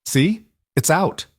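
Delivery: high, sing-song reassurance; bright high child-soothing voice. A narrator's reading. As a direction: lift the voice to cheer a child. Marion cheering the child.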